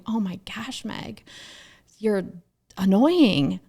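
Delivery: playfully fed up with yourself; mock exasperation. Retold exasperation at own recorded voice.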